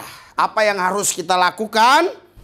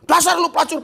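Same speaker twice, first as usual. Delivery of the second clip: mock insult; 8 semitones higher than usual. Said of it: "satu lagi bilang".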